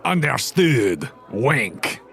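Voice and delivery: slow, sly villain murmur with a conspiratorial wink; mustache twirling villain. Acted. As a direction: draw it out like a scheming mustache twirler. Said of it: "He twirls his mustache a little bit".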